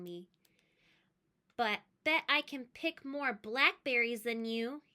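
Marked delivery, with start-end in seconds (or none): 1.6-4.8 jeering. Acted. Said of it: "he jeered at me".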